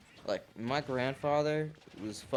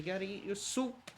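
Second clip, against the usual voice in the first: higher put-on grandma voice; imitating grandma; 10 semitones higher than usual. Grandson mimics grandma telling him to eat soup, high mock voice. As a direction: nag like a doting grandma. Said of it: "say some dumb shit and like".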